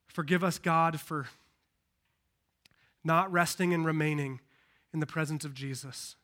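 low, subdued pastoral prayer. Real, not acted. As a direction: pray humbly aloud with long pauses between phrases. Leads a prayer.

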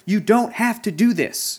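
high, slow, gentle plea; gentle pleading boy. Retold or imitated. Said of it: "Hogarth is like".

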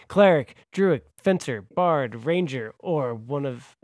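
lightly announced roll call; announcer voice. Pretend. Host reading out the deck classes, announcer voice. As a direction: list them off like an announcer. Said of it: "do it in a announcer voice".

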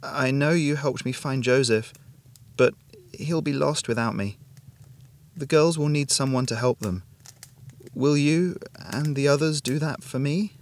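weak, imploring mother's plea; pleading. A narrator's reading. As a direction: plead from the sickbed, slowing on the final question. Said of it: "she pleaded".

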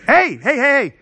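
loud, lively pretend phone greeting; pretend phone call. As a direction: answer a make-believe call, taken aback by the hour. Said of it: "let me just pretend that it rings".

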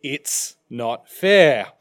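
mock whine. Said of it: "they cry out".

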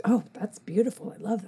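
soft, admiring imitation; hushed mimicked approval; retold admiration. Brazilians admiring her name, retold.

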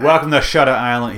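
light Boston accent, imitating the guard; a touch of thick Boston. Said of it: "thick Boston accent".

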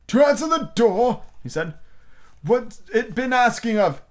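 high, slow croaking frog voice; a lightly voiced old frog, puzzled; old frog puzzling over Alice's question; hoarse old frog. A narrator's reading. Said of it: "He was so hoarse".

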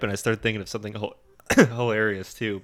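speaking through a cough; recovering from a cough; after choking. Real, not acted. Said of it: "Water down the wrong pipe there?".

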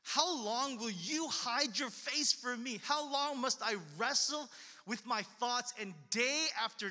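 drawn-out, pleading prayer; lament. Acted. Preacher reads David's psalm to the congregation, slow pleading lament. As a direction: press each question on God. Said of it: "David's many prayers of lament".

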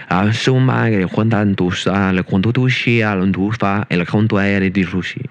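mock Italian gibberish; fake Italian. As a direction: babble like an Italian. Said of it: "best fake language you can make up".

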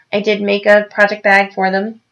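words around a sip of wine; while sipping a drink. Real, not acted. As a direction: talk with wine in the mouth. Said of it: "I'm sipping some wine as I talk".

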